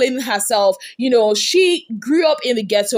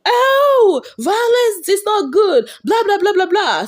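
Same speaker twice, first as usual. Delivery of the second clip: mocking Iyabo; 9 semitones higher than usual. Vlogger mocking Iyabo's earlier speech on violence, whiny and high. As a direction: parody her tearful piety, pitched way up. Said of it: "this is the same Iyabo that was saying".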